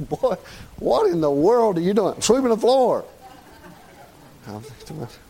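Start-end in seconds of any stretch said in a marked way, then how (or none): 0.1-3.1 put-on a dad baffled by his boy; puzzled father. Preacher voicing father asking son what he's doing.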